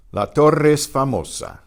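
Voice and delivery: Torre es run together as "torres"; La Torre es famosa, no break between Torre and es; blended vowels. Shown as a demonstration. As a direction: link Torre es with one shared E. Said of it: "E in torre and the E in es blend".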